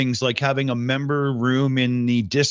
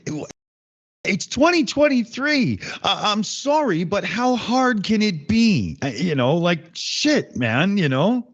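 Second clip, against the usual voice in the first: exasperated; 6 semitones higher than usual. Real, not acted. Exasperated rant about broken setup.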